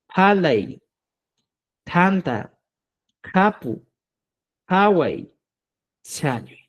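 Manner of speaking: "halay, tanta, kapu, hawai, chayui" with a puff of air on each first consonant; consonantes aspiradas. Shown as a demonstration. ("halay, tanta, kapu, hawai, chayui" con inicial aspirada)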